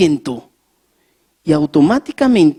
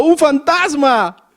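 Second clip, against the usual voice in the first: mock terrified cry, higher and louder, slow; grito de miedo; 8 semitones higher, 4 dB louder, slower than usual. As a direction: cry out like a frightened disciple. Discípulos gritan de miedo. (grito asustado, más agudo y fuerte, lento)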